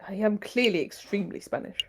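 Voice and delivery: fake Spanish accent. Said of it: "did something seem off about his accent?".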